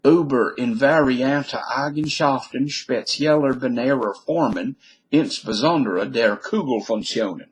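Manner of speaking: German title read out in an American accent; original German. Shown as a demonstration. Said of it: "here it is in the original language".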